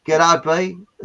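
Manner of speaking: loud, badly faked New Zealand greeting; bad New Zealand accent. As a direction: attempt a New Zealand accent that slips into Australian. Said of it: "that's a terrible New Zealand accent".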